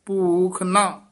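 "ਭੂਖ ਨਾ" set apart by a short hold; measured, separate "ਭੂਖ ਨਾ"; slight pause after. Shown as a demonstration. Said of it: "ਇੱਥੇ ਥੋੜਾ ਠਹਿਰਾ ਦੇ ਦੇਣਾ".

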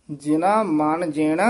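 ਜਿਨਾ ਮਨ ਜੀਣ with a rise, then a brief halt; brief stop after ਜੀਣ; short pause. Shown as a demonstration. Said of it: "ਇੱਥੇ ਠਮਕ". (ਜੀਣ ਤੋਂ ਬਾਅਦ ਠਮਕ)

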